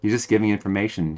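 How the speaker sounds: deadpan mock wonder, barely inflected; sarcastic praise. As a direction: pretend to be impressed, drily unconvinced. Mock praise of bland game acting.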